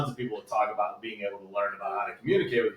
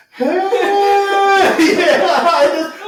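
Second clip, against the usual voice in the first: high, loud burst of laughter; overwhelmed, half laughing; laughing outburst; 15 dB louder, much slower than usual. Real, not acted. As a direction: laugh it out, suddenly much higher and louder.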